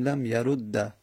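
لم یرد read "lam yarudda"; fatha ending. Shown as a demonstration. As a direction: slowly say لم یرد with doubled d and final short a. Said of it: "یعنی بهتره فتحه بدیم".

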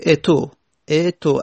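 اتو said "e-to", with the k dropped; kasre straight to damme. Shown as a demonstration. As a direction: say اتو as "eto", "e" then rounded vowel. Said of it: "از کسره به دمه رفتیم".

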